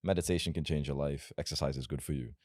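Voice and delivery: nice, boring advice. Shown as a demonstration. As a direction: say it meekly, like a safe tip. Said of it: "If I tell you nice things like".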